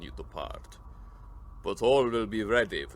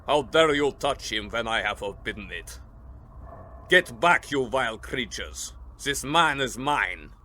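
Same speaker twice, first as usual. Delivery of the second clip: loud, commanding fury, slowing at the end; furious rebuke; 3 dB louder than usual. Acted. The Count drives the vampire women from his guest, furious. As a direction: thunder at them to get back.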